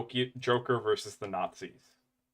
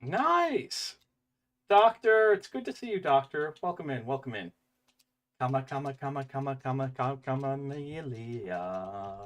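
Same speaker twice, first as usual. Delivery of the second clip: theatrical host voice; 3 semitones higher than usual. Acted. Greeting streamer with put-on voice.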